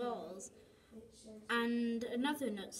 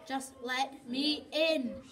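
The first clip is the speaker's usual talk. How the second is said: held-back anger; 4 dB louder, slower than usual. Acted. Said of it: "barely keeping the anger in".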